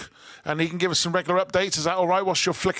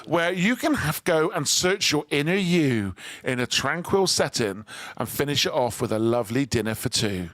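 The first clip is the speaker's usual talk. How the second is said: shopping channel pitch; 3 semitones lower than usual. Acted. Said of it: "Shopping Channel style pitch".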